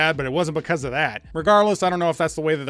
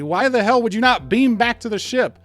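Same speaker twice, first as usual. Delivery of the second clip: exasperated rant; 6 semitones higher, 4 dB louder than usual. Real, not acted. Ranting about plot hole.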